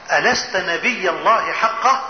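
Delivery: low, slow, weighty question; grave challenge. Retold or imitated. Umar questioning the Prophet, grave low challenge. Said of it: "كلام شديد قوي".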